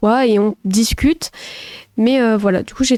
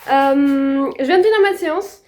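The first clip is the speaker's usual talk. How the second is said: breathless after workout; panting between words; out of breath. Real, not acted. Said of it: "je suis essoufflée comme pas possible".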